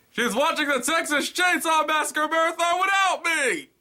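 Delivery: very high, loud whiny outcry; high mock-outraged whine; indignant squeal. Comic punchline, indignant squeal.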